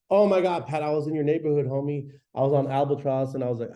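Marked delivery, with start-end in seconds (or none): 0.1-0.7 excited greeting. Acted. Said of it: "And I'll be". 0.7-1.7 excited greeting. Acted. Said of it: "And I'll be". 1.7-3.4 excited greeting. Acted. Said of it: "And I'll be".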